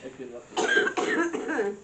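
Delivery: very slow, high and loud mock drawl; teasing drawl. Real, not acted. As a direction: stretch it out to tease. Teasing remark, drawn out.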